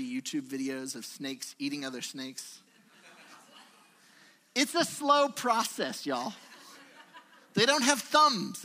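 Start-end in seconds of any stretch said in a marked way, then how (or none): 4.5-8.6 laughing. Real, not acted. Laughing about snakes eating.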